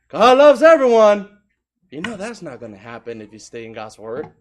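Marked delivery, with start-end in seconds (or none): 0.1-1.3 much higher, louder sneering put-on voice; mock quote. Preacher mimics people who say God loves all, loud and high. Preacher mocks opponents' view.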